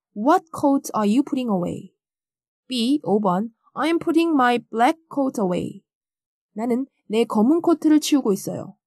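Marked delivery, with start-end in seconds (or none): 0.1-1.9 heavy stress on what, rest kept light. English listening lesson, the question asks which coat: stress on what. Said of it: "what을 강하게 발음해야겠습니다".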